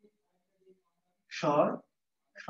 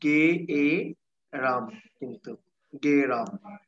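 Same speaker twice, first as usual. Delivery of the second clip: slow motion; 4 semitones lower, much slower than usual. Shown as a demonstration. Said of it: "আগে বলি গ, তারপর বলি এ".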